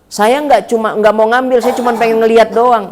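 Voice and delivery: lightly acted defensive excuse; mugger's excuse. Snatcher excuses himself to the old man, mock-innocent protest. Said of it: "Tukang jamret tuh begitu".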